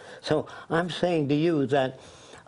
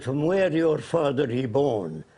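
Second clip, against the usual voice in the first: slow, lightly put-on Arab accent; imitated Arab accent. Arab leader asks about the caller's background, imitated Arab accent. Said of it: "He said in his accent".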